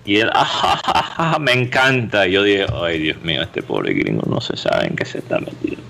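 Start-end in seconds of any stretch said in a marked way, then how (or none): 0.3-2.3 gringo laughing. Retold or imitated. Gringo laughing reply voiced. 2.7-5.8 low, soft, whispered pity; whispering to himself about the naive American; whispered aside. Retold or imitated. Narrator's own aside about gringo.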